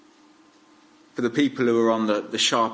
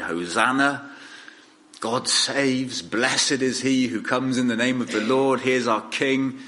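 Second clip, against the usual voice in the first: crowd's acclamation, only mildly raised; mild exultant cry; 3 semitones higher than usual. Retold or imitated. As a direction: retell a jubilant cry with restrained lift. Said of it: "they'd all cried".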